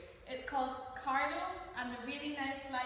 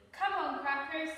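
put-on higher, louder child voice; eager kid; 5 semitones higher, 6 dB louder than usual. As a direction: urge the cat along. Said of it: "said Carlo".

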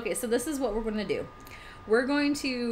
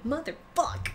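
laugh-cry curse; 4 semitones higher than usual. Real, not acted. Laughing cry after death.

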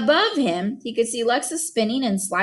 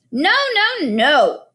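put-on high, building little-kid no; a toddler winding up to a tantrum; rising toddler protest; 6 semitones higher, 4 dB louder, much slower than usual. A narrator's reading. Boots protesting being stuffed in the backpack, rising toddler wail. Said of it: "her voice rising in pitch and intensity".

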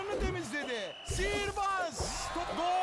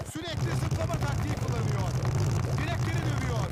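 screaming football commentator; 7 dB louder, faster than usual. Acted. Excited game commentary call.

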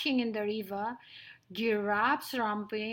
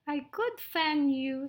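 higher, eager mouse voice; little mouse, eager; 4 semitones higher than usual. Acted. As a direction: offer help as a tiny mouse.

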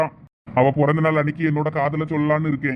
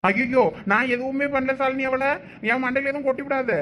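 alarmed protest; 7 semitones higher than usual. Acted. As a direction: protest your innocence in a much higher pitch. Accused, fears a knock on head. (பதறிப்போய் கெஞ்சும் மறுப்பு)

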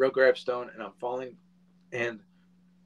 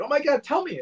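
much higher, squeaky alarm; mock alarmed; 6 dB louder, faster than usual. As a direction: overdo the shocked concern. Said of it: "he's like".

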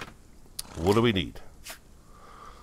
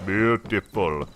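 drawn out; much slower than usual. Shown as a demonstration.

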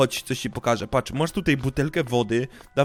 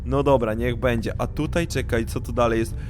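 ordinary talk, nothing marked

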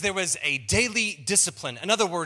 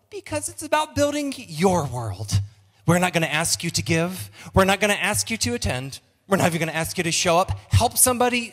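a hint of a bright flight attendant's welcome, louder; stewardess voice; 4 dB louder than usual. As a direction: greet the church like a flight attendant on a plane. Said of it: "by talking in my stewardess voice".

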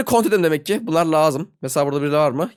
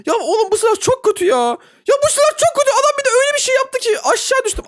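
much higher, squealing frustration; high squeaky moaning about the weapon; whiny complaint. Real, not acted. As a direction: whine about the useless gun. Complaining about bad gun.

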